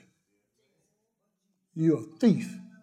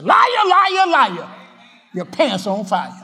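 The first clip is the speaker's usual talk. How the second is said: high shouted playground jeer at the devil; mocking taunt; 7 semitones higher, 6 dB louder, slower than usual. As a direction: taunt him like a child. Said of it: "You say".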